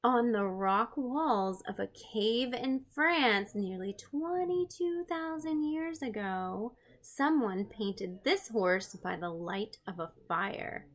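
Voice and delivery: slow, wondering read-aloud; storybook reading. Acted. Reading a picture book to her stream viewers, slow and wondering. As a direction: lean in and read it like a children's book.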